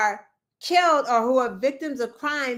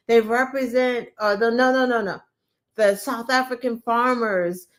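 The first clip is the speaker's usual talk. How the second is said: mock grave Trump voice, lightly done; imitating a solemn presenter; serious and somber. A hint of Trump showing the video, mock somber. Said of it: "voice that he does when he's trying to be, like, serious and somber".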